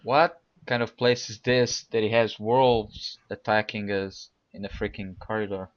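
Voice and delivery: put-on thickly accented Dwarvish character. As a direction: speak as a Dwarf with a foreign accent. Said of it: "this is my Dwarvish accent".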